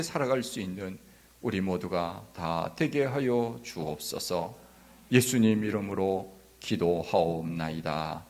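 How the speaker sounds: low, solemn prayer voice; closing prayer. Real, not acted. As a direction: lead the congregation in earnest prayer, in measured phrases. (낮고 경건한 마무리 기도)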